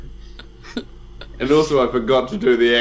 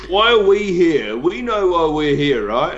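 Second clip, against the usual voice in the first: blustering Banfor; 3 semitones higher than usual. Acted. Banfor rambles defensively.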